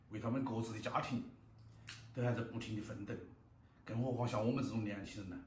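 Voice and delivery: talking with a mouthful of noodles; chewing while talking. Real, not acted. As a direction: chew between words. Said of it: "eating noodles while talking".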